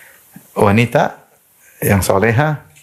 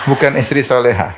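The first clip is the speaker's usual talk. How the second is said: ordinary talk, nothing marked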